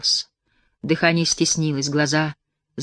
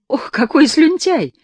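high, slow contemptuous scolding; 10 semitones higher, 6 dB louder, slower than usual. A narrator's reading. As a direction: sneer at him, loud. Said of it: "обругала его Семина". (презрительная брань)

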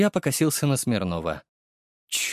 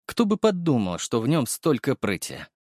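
usual speaking voice

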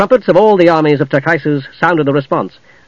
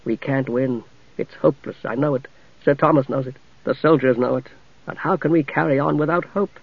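soft, hopeless murmur; almost beneath the breath, defeated; quiet despair; 6 dB quieter than usual. Acted. Tanis admits hopelessness to Sturm, softly.

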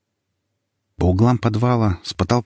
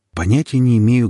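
usual speaking voice

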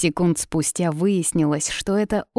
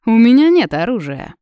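higher and much louder, smiling mockery; still smiling; 5 semitones higher, 9 dB louder than usual. A narrator's reading. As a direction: toss it off with a grin. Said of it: "продолжая улыбаться".

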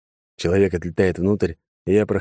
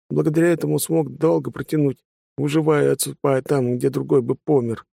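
higher, wry self-satisfied telling; smirking prisoner; 7 semitones higher than usual. A narrator's reading. Prisoner explaining his gift to the mage, higher smirking voice. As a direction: smirk through the story. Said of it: "ухмыльнулся он".

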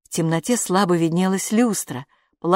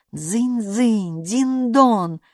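voiced bell chime, pitched up at the end; insistent doorbell; 4 semitones higher, much slower than usual. A narrator's reading. Doorbell keeps on ringing, sing-out imitated chime. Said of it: "Звонок уже просто надрывался".

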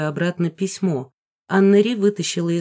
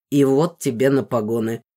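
chuckling; 5 semitones lower than usual. A narrator's reading. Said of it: "хихикнул отец".

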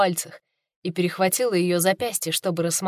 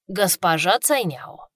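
благодарно; slower than usual. Acted. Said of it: "благодарно кивнул Гоушен".

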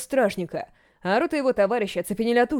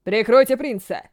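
urgent shout, slowed; 4 dB louder than usual. Acted. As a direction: bark an urgent order. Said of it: "крикнул Гарден".

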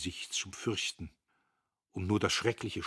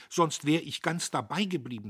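fliegende Stimme; 7 semitones higher, 7 dB louder than usual. A narrator's reading. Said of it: "mit fliegender Stimme".

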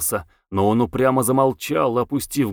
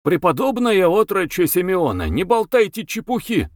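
higher-pitched, mildly irate rebuke; a touch of exasperated scolding; angry cutting-off; 7 semitones higher than usual. A narrator's reading. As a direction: cut him off crossly. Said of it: "сердито оборвал его Маракуев".

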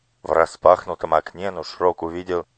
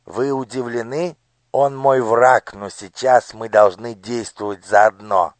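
high, commanding minister's voice; a cold lord issuing orders to his daughter; scheming minister; 5 semitones higher, 7 dB louder than usual. Acted. (властный голос министра)

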